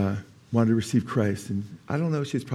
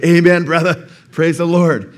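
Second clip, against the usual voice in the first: excited amen; 5 semitones higher, 8 dB louder, slower than usual. Retold or imitated. Retold joyful response to Tom.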